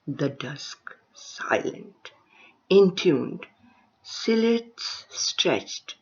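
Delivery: deliberate recital, phrase by phrase with pauses; poem recitation. Acted. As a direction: lift the opening words, then let phrases settle. Reads own poem aloud.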